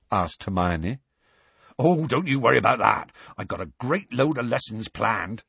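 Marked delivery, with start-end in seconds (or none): 1.8-5.4 enthusiastic. Acted. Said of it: "said Hagrid enthusiastically".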